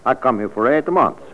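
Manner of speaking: put-on thick Italian immigrant accent, chatty; a vegetable seller with a heavy Italian accent. Neroni courting Antonietta.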